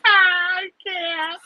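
high, breathless laughing words; can't stop laughing. Real, not acted. Laughing fit over a chat comment.

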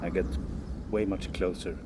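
preacher voice. Pretend. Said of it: "you sound like a preacher".

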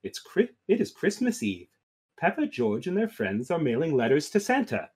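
soft storybook read; story narration. A narrator's reading. Peppa and friends write to Santa, soft story narration. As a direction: read gently, as to small children.

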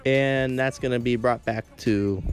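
lively sports commentator call; play-by-play. Acted. Kid calling his football video game for viewers, play-by-play.

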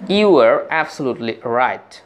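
You are absolutely right drawn out very slowly; slow model phrase. Shown as a demonstration. Teacher modelling the English for students, very slowly. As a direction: spell it out word by word for learners. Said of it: "teacher models the phrase".

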